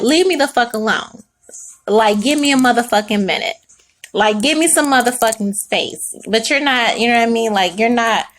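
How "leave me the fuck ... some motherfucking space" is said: acted fed-up demand for space; mock blunt outburst. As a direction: let the held-back irritation out, mildly. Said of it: "really wanna do is be like".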